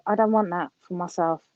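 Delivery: ordinary talk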